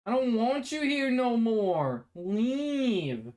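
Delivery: lightly imitated Australian accent, drawn out; mock Australian telling the bee it's unwelcome; Australian accent shooing away the bee on the windowsill; Michael Cusack voice. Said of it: "it's speaking like Michael Cusack".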